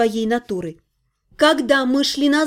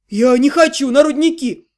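a louder, wailed protest; wailing protest; 4 dB louder than usual. A narrator's reading. Prisoner wailing at the guard, a loud protest. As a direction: cry out against the mines. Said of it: "завопил Ллойд".

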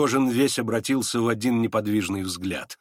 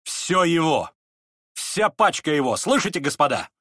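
mildly raised proclamation; Настасья Филипповна; 4 semitones higher than usual. A narrator's reading. Настасья Филипповна awards Ганя the packet, proclaiming. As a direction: announce it firmly to the company. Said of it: "провозгласила Настасья Филипповна".

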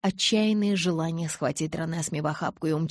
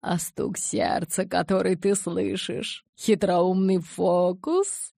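insinuating; 2 semitones higher, 4 dB louder, slower than usual. Acted. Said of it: "От вкрадчивых вопросов".

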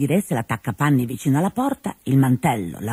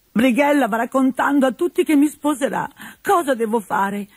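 lightly voiced distressed Colombina; 9 semitones higher than usual. Colombina in tears.

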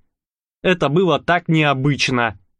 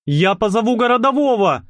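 threatening; 8 semitones higher than usual. Acted. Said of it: "пригрозил юноша".

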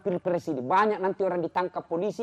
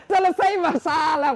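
ordinary talk

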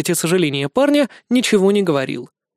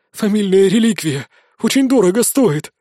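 frantic; 3 semitones higher, 3 dB louder than usual. Acted. Frantic confession.

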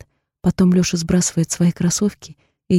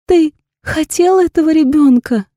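higher, louder, sobbing; 9 semitones higher, 5 dB louder than usual. A narrator's reading. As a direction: she sobs the question at him. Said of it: "схлипываю я". (всхлипывая)

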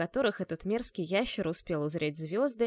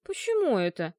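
обиженно; 4 dB louder than usual. Acted. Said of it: "обиделась Зорзара".

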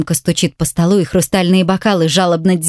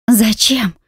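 tearful; 5 semitones higher than usual. A narrator's reading. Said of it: "Коротко всхлипываю".

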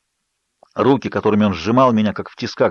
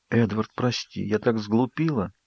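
softer, slow, guilty "Эдвард, прости"; remorseful apology; 7 dB quieter than usual. Acted. Bella apologizes to Edward, ashamed and soft. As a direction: apologize with real regret.

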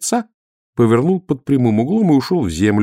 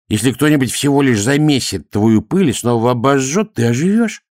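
higher, arguing priest voice; objecting priest; 5 semitones higher, 3 dB louder than usual. A narrator's reading. Priest argues with Dorfl about being remade, objecting. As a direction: argue back, rising higher at the end.

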